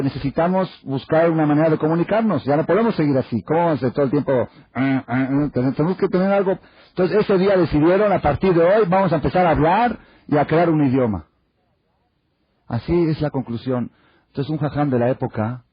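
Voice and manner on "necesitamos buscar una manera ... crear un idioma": lightly voiced monkeys at a summit; monkey delegates. (los changos en su junta, voz más aguda y fuerte)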